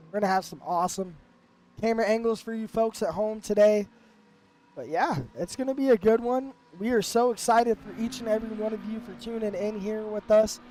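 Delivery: hoarse from the flu; talking through a sick voice. Real, not acted. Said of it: "my beautifully sick voice".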